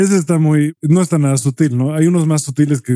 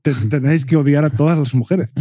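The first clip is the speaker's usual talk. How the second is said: mock Spanish accent. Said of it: "imitar el acento español".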